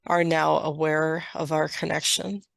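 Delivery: slow, measured channeled delivery; channeled message. Acted. Dragon clan sends love to a listener, slow channeled message. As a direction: speak evenly, pausing between phrases.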